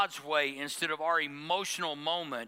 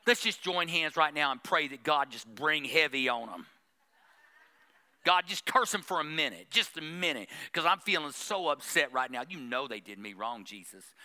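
mock self-pitying churchgoer; 3 semitones lower than usual. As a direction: play the wronged believer fishing for sympathy, lightly. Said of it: "You wanna hear".

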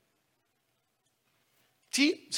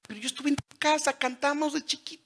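high, quick voice of someone feeling forgotten; hurt acquaintance; 8 semitones higher, 7 dB quieter than usual. Retold or imitated. Friend complaining the pastor forgot him, high and hurt. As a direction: play the offended old friend, pitched high. Offended person not recognized.

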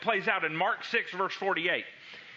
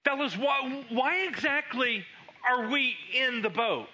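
a lightly voiced, higher puzzled fisherman; puzzled disciple; 5 semitones higher than usual. Disciple asking his fellow fishermen, lightly voiced puzzlement. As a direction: ask the crew why they are even here. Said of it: "I can imagine them thinking this".

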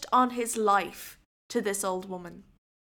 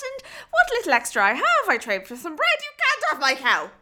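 put-on old woman voice; 3 semitones higher, 9 dB louder than usual. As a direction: plead like a stubborn old woman.

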